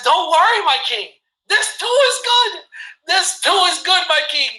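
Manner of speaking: the counselor triumphantly repeating his motto. Retold or imitated. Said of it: "The counselor says".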